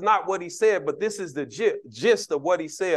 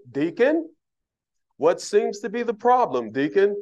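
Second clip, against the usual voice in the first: pastor's stern question; 3 semitones higher than usual. Retold or imitated. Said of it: "pastor probably be standing there looking at me".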